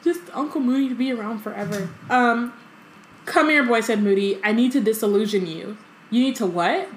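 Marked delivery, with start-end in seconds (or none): 3.2-6.9 lively story reading, quotes lightly voiced; reading aloud. A narrator's reading. Co-host reads the chapter aloud, lively storytelling. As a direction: read the book to a friend.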